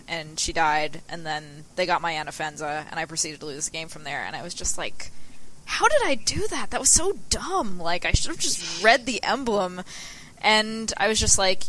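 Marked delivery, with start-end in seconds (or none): 5.6-9.8 high, exasperated self-scolding; exasperated at himself. Retold or imitated. Player berating himself after a misplay, exasperated. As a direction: kick yourself over a dumb misplay.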